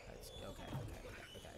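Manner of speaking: hushed, breathless okays; sneaky whisper. Pretend. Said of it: "we gotta be sneaky imp".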